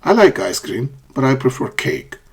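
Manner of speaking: "ice cream" goes up, "cake" comes down; contrastive fall-rise. Shown as a demonstration. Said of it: "a falling and rising intonation".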